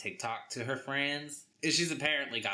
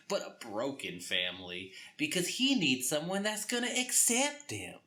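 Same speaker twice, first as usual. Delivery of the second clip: mock landlord; 7 semitones higher than usual. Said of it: "the guy who owns the house is like".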